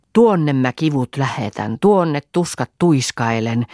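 rhythmic recited charm; spellbound incantation. A narrator's reading. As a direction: recite the pains away like a spell. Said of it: "tenhoissaan luki". (loitsua tenhoissaan lukien)

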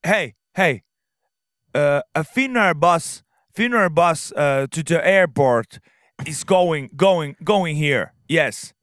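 loud, high broken English, slow and insistent; eager helpful stranger hollering bus info; shouting man at bus stop. Retold or imitated. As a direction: call out to a stranger in clumsy English. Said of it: "alkoi huutamaan, että".

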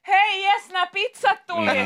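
high mock-cheerful call; teeskennelty innostunut huuto. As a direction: call out to imaginary friends, hammed-up. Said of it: "sä huudat sinne". (esitetty kimeä riemuhuuto)

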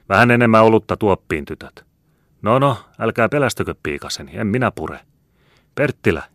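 high, loud, hearty bragging; boisterous soldier. Acted. Soldier introducing himself to Perttilä, boisterously. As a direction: introduce yourself with booming swagger.

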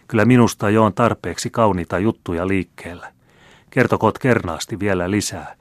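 a playful, teasing noblewoman; a hint of a coquettish marquise. Marquise voiced in story.

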